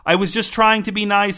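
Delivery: high, protesting self-defense. A narrator's reading. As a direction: voice climbing in protest. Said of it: "edging toward the high end of the scale".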